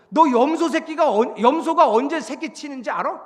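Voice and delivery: acted divine cross-examination; challenging quiz. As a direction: throw it out like a taunting challenge. God quizzing Job, acted.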